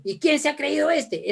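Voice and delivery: high-pitched mock indignation; indignant. Wife reacting to husband, high-pitched indignation. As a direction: flare up in offended disbelief. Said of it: "Eso no me frena, eso me anima".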